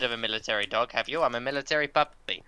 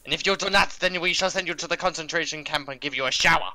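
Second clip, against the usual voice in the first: hammed-up German menace; mock German accent; 2 semitones higher than usual. Streamer mock-threatening co-host in a German accent.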